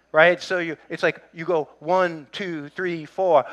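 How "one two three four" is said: counting coach. Retold or imitated. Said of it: "they teach you to count".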